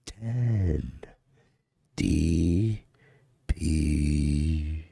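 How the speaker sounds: slow spaced DPI call; DPI guy voice. Pretend. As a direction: space each letter out. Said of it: "the D P I guy".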